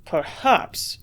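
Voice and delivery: doubtful rising Perhaps with a sniff; dubious sniff. A narrator's reading. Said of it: "he sniffed dubiously".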